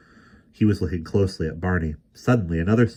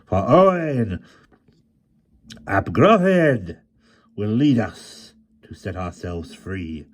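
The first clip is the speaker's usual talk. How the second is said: passionate; 4 semitones higher, 5 dB louder than usual. Acted. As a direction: rouse them with passion. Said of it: "the passion in the frail voice".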